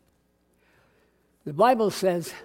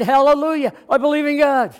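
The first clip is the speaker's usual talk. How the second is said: joyful exclamation; 9 semitones higher, 8 dB louder than usual. Retold or imitated. Atheist converts, joyous exclamation.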